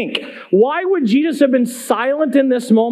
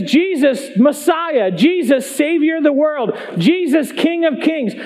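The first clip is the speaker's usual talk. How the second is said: higher-pitched appeal, title by title; imitated calling out; 4 semitones higher than usual. Woman calls on Jesus by his titles, imitated calling out. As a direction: call out each title in turn. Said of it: "She's calling out to him".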